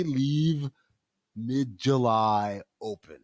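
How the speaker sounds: spaced out slowly, word by word; slow, pointed announcement. Real, not acted. Host dropping a hint to listeners, slow and pointed. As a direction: drag out the hint deliberately. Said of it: "I'ma say it to you like that".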